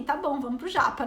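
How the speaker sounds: shrugging, going along with it; unenthused. Retold or imitated. She answers the sushi invitation, mildly unimpressed. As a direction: agree without any excitement. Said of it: "e pra mim é tipo assim".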